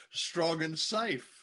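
drawn-out strong and safe; slow quote. Retold or imitated. Husband savoring the wife's line, slow and drawn out. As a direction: stretch it out slowly, savoring it. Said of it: "highly unlikely to say".

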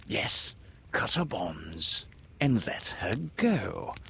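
slow, lightly put-on captain's voice; calm command in borrowed voice; imitating Hook. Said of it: "imitated the voice of Hook".

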